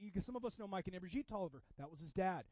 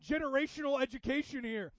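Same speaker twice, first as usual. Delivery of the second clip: mock awed aside; 6 semitones higher, 9 dB louder than usual. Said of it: "And I'm like".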